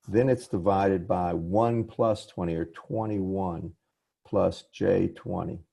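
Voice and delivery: careful, deliberate working-through; slow down towards the figures, pausing between. Real, not acted. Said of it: "slow down and do it right".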